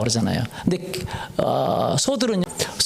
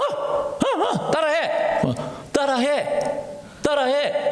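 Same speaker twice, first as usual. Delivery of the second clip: coaxing the dog; 9 semitones higher, much slower than usual. Pretend.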